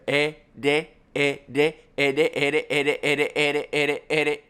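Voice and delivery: e de repeated with an English D; e de drill. Shown as a demonstration. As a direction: drill e de to find the tap. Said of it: "then put a D there".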